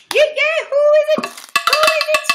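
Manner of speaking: high, loud teasing call; high bouncy who is it; playful sing-song. Pretend.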